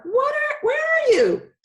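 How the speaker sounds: put-on high, loud calling for her boy; mom shouting. A narrator's reading. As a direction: yell it from the back door.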